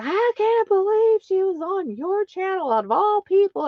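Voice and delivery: high snooty disbelief; mock disbelief. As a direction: scoff like a jealous rival. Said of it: "people were like".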